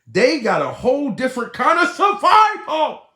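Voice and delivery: laughing it out loud and high; laughing shout. Real, not acted. Laughing loudly to viewers about survivors, loud laughing shout.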